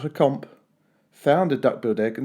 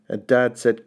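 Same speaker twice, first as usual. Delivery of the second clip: ordinary delivery, nothing marked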